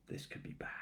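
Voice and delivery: under your breath, afraid of the spill; whisper. Real, not acted. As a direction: breathe it as a nervous aside. Aside while pouring the honey.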